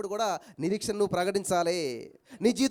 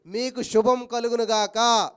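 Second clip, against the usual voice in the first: blessing; 4 dB louder, much slower than usual. Acted. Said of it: "యేసుక్రీస్తు ప్రభువారు ప్రత్యక్షమై".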